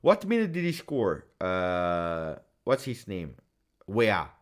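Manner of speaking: usual speaking voice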